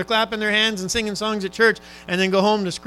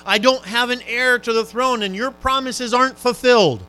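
urgent, raised prayer of a dying king; pleading prayer; 3 semitones higher, 5 dB louder than usual. Retold or imitated. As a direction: cry out to God that you are not done. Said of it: "What he's trying to say is".

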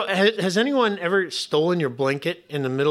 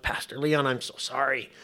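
apologetic widow; 3 semitones lower, 7 dB quieter than usual. Retold or imitated. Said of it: "she called me up".

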